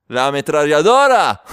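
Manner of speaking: loud mock threat; punchline threat. Man at the door warning off thieves, loud mock threat. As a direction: belt out the punchline, falling at the end.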